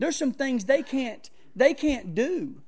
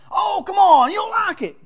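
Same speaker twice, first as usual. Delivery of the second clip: much higher and louder, coaxing put-on voice; pushy friend voice; 10 semitones higher, 12 dB louder than usual. Friend urging him to try Supreme pizza, high and coaxing. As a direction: coax him like a pushy host.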